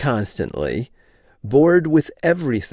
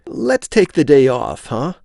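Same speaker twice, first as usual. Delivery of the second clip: a touch louder, put-on cheer; forced cheerfulness; 3 semitones higher, 6 dB louder than usual. A narrator's reading. Hale hiding his worry from Gloria, mild forced cheer. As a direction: brighten up artificially to hide the strain. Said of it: "he said with forced cheerfulness".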